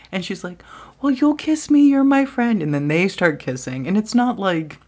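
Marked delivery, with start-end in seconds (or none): 1.0-2.6 put-on much higher, louder girly whine; drunk girl. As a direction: play the tipsy girl begging sweetly. Drunk girl asking to kiss.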